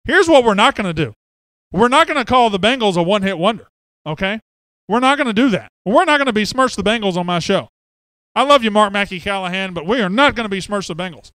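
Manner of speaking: loud, high, emphatic telling-off; mock indignation. Real, not acted. Host scolds a listener for besmirching the Bengals, mock indignant. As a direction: lay down the law with exaggerated firmness.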